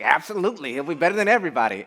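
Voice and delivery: high, loud, gung-ho imitation; quick burst of imitated certainty; emphatic quoted answer. Retelling an interviewee's emphatic answer.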